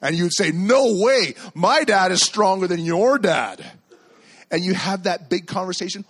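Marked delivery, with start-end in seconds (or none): 0.5-3.6 put-on arguing kid. Kid arguing back about dads.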